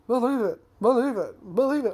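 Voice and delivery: high, loud repeated catchphrase; Naruto impression. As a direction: shout it like an annoying cartoon kid. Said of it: "please someone shut him up".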